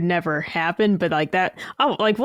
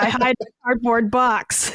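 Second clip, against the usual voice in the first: a lightly gruff Snake voice, a bit higher; Solid Snake impression; 4 semitones higher than usual. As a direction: play up a goofy Snake voice. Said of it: "The worst Solid Snake you've ever heard".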